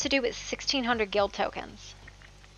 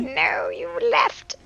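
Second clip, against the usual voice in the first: slow hurt accusation; 4 semitones lower, much slower than usual. Acted. Acted quarrel, slow accusation.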